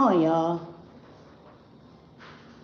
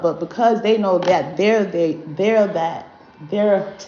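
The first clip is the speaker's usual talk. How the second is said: stuck, repeating words while stuttering; stumbling stutter over they're. Real, not acted. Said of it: "I don't know why I'm stuttering so much".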